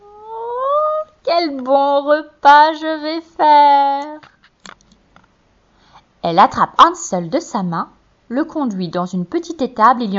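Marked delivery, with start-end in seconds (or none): 0.0-4.2 very high then slow, louder witch gloat; high drawn-out hungry witch cry; murmur. A narrator's reading. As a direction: gloat over the sleeping children. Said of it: "elle murmure".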